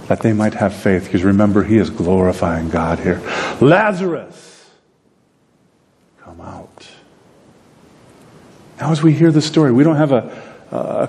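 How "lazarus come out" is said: loud command. Retold or imitated. Jesus calling the dead man out of the tomb, loud and slow. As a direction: call him from the tomb. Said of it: "it says it in a loud voice".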